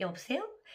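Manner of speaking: sweet, playful, soft, cute coaxing aegyo tone. Advice on answering an unexpected call: slightly cute coaxing tone. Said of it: "약간 애교를 섞어가지고 대답을 해줘야 돼요".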